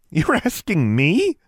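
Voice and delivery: loud, high, slow disbelief; stunned that anyone would ask her; loud slow incredulous question. A narrator's reading. Alexandra chokes at the question.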